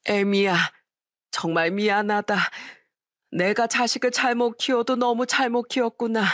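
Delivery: a hint of tearful old parent, slowing at the end; tearful apology. Parent apologizing to the widowed daughter-in-law, mildly tearful. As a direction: apologize with a breaking heart, understated. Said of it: "눈물을 흘리시면서 저한테 사과를".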